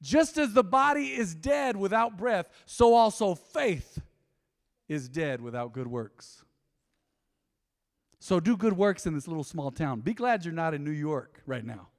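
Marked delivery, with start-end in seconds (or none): 0.0-6.4 slow scripture reading. Shown as a demonstration. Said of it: "James two twenty-six".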